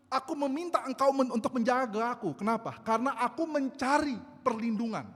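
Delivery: loud, high, impassioned sermon cry; fervent preaching. Acted. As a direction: preach it out like a desperate prayer. (khotbah berapi-api dengan suara keras)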